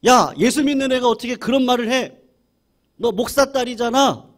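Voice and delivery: put-on loud, high rebuke of a child; angry scolding father. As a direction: scold her sharply, raising your voice. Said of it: "목사님이 화가 난 거죠".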